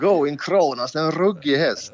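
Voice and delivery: lightly imitated cool racing-tipster line; Lutfi impression. Shown as a demonstration. Guest's second try at Lutfi's horse call, lightly imitated. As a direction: try out a cool Kronos catchphrase. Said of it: "säga Kronos lika coolt som Lut-, Lutfi".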